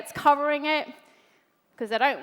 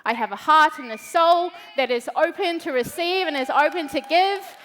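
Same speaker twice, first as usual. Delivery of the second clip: building to a shout; 5 dB louder than usual. Pretend. Stripping off, claiming her voice.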